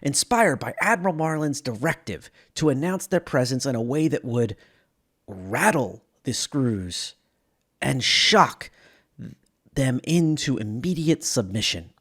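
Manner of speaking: documentary-style narration of a starship crash; dramatic lore narration. Acted. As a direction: tell it like an epic space tragedy. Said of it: "this dramatic telling".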